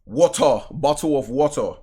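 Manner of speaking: mocking British "bottle of water"; teasing, put-on British accent. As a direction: make fun of a British accent. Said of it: "He making fun of your accent".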